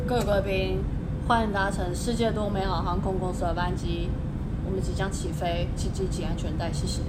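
cold, low flight attendant announcement; icy airline cabin announcement. Pretend.

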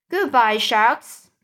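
loud, gleeful farewell cry; joyful shout. Acted. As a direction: cheer it out to the sharks. Joyful shout as peach rises.

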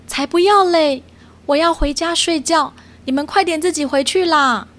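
high, bouncy little otter voice saying no; a stubborn little otter brushing them off; sea otter refusing. Acted. Otter refusing the cats' request, high and stubborn.

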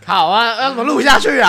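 high and loud through laughter; laughing exasperation. Real, not acted. Host laughing as the recording derails. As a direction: laugh helplessly at the mess.

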